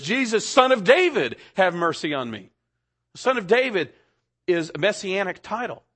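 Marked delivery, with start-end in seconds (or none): 0.0-2.5 a beggar calling out with trust; crying out in faith. Retold or imitated. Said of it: "He cries out in faith".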